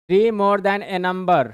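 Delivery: stretched, deliberate reading; slow reading of problem. Shown as a demonstration. Teacher reading the textbook phrase to students, slowly. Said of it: "reads the problem aloud".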